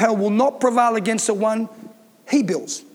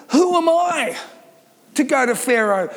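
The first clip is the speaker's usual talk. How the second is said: a hint of Moses, pitched up in disbelief; doubting Moses; 2 semitones higher than usual. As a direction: lightly play Moses protesting he's nobody. Moses doubting, quoted in sermon.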